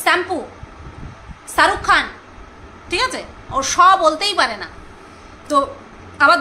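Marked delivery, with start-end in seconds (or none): 1.5-2.0 শাহরুখ with a plain s sound, sarukh khan; Sati's pronunciation. Retold or imitated. Vlogger repeats Sati's dental s in শাহরুখ Khan. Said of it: "তালিবর্ষটাকে ও দন্তস্ব উচ্চারণ করে".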